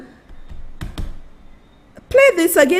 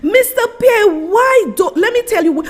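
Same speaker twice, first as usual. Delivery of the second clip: angry appeal; 4 semitones higher than usual. Real, not acted. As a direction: let him have it, rising outrage. Angry appeal to Mister Pierre.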